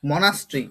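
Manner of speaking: মনাস্ট্রি measured out as mo-nas-tri; pronunciation demo. Shown as a demonstration. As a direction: model মনাস্ট্রি carefully, falling at the end. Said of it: "এটার উচ্চারণটা কি হবে?".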